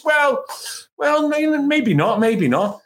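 high, hedging well, well, maybe not; hesitant, evasive reply. Retold or imitated. Manager dodging Shearer's question, high hedging stall.

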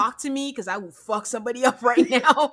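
laughing through a mock threat; mock quiet fury. Imitating Alexis holding in her anger, laughing. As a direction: play the seething restraint half-jokingly. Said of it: "you know that kind when you're so angry".

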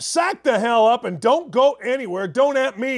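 loud, slow hype shout; fired up. Real, not acted. Host signing off to viewers, shouting fired up. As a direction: yell it out to pump up the crowd. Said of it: "I'm fired up".

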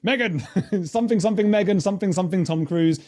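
high-pitched parody of clickbait chatter; mock content patter. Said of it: "you go".

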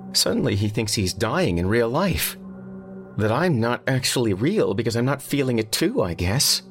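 high, upset woman's voice; tearful. A narrator's reading. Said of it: "she sniffled".

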